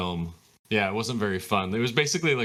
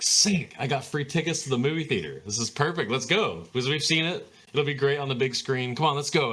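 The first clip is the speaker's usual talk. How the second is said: excited; 4 semitones higher than usual. Retold or imitated. Reenacts talking family into outing.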